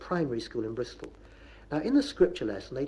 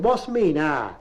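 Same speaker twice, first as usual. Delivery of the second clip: raised, loud opening, dropping on "ah"; indignant challenge; 5 dB louder, much slower than usual. Acted. Navvy challenges workmate after a row, indignant Bristolian. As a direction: throw it back crossly.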